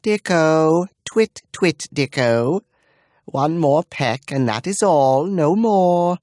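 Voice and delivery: high, sing-song bird-talk; cooing to bird. Acted. Dame turning away to coo at her tomtit. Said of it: "turned back to the birdcage".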